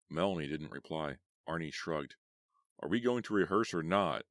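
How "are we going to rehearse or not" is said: impatient. Acted. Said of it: "Paul called impatiently".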